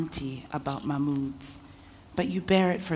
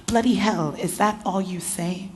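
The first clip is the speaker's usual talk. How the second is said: sudden angry outburst, higher and louder; through clenched teeth; 4 semitones higher, 5 dB louder than usual. Acted. Uncle snapping at his silent niece, angry through teeth. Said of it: "He speaks through clenched teeth".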